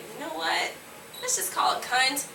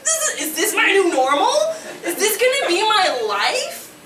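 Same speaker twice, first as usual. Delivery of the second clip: laughing disbelief; 10 semitones higher, 5 dB louder than usual. Retold or imitated. Panicked inner question, laughing.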